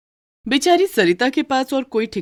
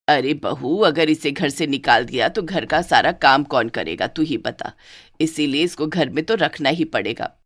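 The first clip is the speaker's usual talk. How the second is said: fond mother-in-law; 3 semitones lower than usual. Acted.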